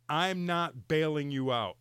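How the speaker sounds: slow, evenly weighted ultimatum; retold firm warning. Wife warns husband heading to the store, firm and slow. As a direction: lay down the law word by word.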